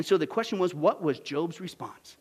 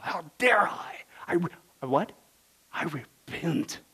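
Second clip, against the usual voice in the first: acted stricken self-reproach, slowing down; slow to a heavy, halting confession; despairing; 3 semitones lower than usual. Preacher acts Job repenting, stricken and despairing. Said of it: "did Job literally moan in despair?".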